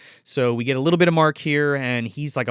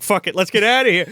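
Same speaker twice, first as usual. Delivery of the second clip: panicked; 6 semitones higher, 6 dB louder, faster than usual. Retold or imitated. Panicked flight from the house.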